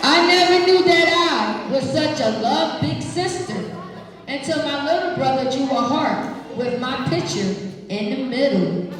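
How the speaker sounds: put-on expressive read-aloud to kids; reading to children. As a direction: read it warmly to the class. Reading picture book aloud.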